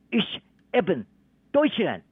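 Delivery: German words with stress on the first syllable. Shown as a demonstration. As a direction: say Ich eben Deutschland, hitting the front. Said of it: "重音在前面". (德语发音，重音在前)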